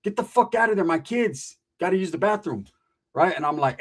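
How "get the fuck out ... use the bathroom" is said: Samoan dad yelling hey, hey at the stall; retold yell. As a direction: bark it at the bathroom door. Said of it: "He yells".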